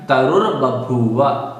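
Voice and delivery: तरुर्बभूव with a distinct र् after रु; clear r sound. Shown as a demonstration. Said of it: "इस तरह से". (तरुर्बभूव में रु के बाद रकार स्पष्ट)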